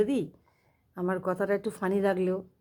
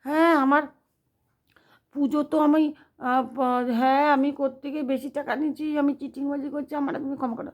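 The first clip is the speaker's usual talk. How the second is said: pleading for mercy; 5 semitones higher than usual. Retold or imitated. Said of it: "এই ভাবছে".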